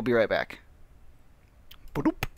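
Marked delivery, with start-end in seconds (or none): 1.9-2.2 imitated blip. Shown as a demonstration. Imitated noise before cutting away.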